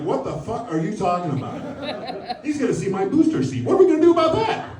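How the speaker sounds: rising into a fast, high, panicked squeal; panicked kid. Retold or imitated. Young son panicking about his booster seat, rising to a squeal. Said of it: "he's like".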